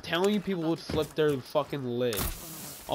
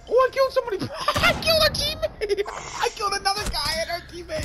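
laughing; faster than usual. Real, not acted. Team-killing by accident, laughing.

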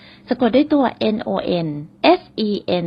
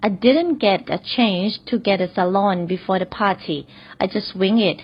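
very slow, careful repeat; slow example repeat; much slower than usual. Shown as a demonstration. Teacher repeats the salon example slowly for learners. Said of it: "ขออีกนิดนึง".

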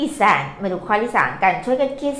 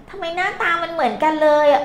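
higher-pitched mock student complaint; puzzled pupil; 8 semitones higher than usual. Pupil asks teacher why two characters look identical, puzzled. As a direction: play a baffled pupil, voice lifted. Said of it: "หลายคน เอ๊ะ เราซื้อคะ".

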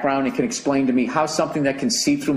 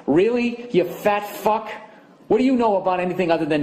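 sarcastic retort; 5 semitones higher than usual. Retold or imitated.

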